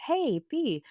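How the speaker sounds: high-pitched call for attention; calling to daughter. Retold or imitated. Mom to her daughter at the shop, calling out. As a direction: call out to your kid nearby.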